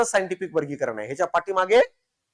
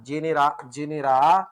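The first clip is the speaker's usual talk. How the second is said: slow dictation; 3 semitones lower than usual. Shown as a demonstration. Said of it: "पुस्तक आलं जेनेरा प्लॅन्टरम".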